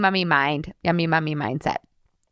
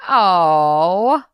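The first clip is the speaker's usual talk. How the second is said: cheeky; slower than usual. Pretend. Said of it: "cheeky and be like".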